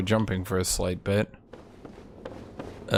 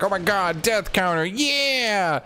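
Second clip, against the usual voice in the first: mock excited chat; 8 semitones higher than usual. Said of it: "You're like".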